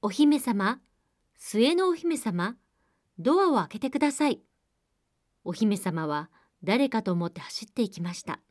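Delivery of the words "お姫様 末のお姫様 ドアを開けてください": frog calling out. Acted. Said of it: "ドアを叩いて叫びました。".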